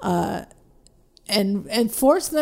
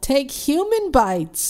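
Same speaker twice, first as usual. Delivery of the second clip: slow, higher mock yell from an ad; imitated yell; 4 semitones higher, slower than usual. Quoting the woman in the off-Broadway commercial, mock yell. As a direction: stretch the words like a stagy outburst. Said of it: "this woman yells out".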